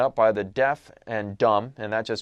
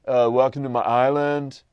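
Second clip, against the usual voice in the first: slow, loud dude-bro voice, mock introduction; casual bro greeting; 4 dB louder than usual. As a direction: greet him like a laid-back bro, drawn out. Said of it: "doesn't talk like that".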